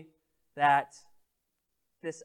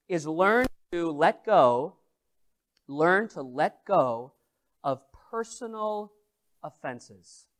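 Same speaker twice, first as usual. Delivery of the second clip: slow emphasis; slower than usual. Real, not acted. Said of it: "Four principles".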